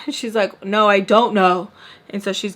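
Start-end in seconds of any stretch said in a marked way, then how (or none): 0.6-1.7 louder, slow emphatic annoyance; mad mom. Acted. Mom getting mad on the phone, slow irritated retort. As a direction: spell it out slowly and louder, annoyed. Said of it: "getting, like, super mad".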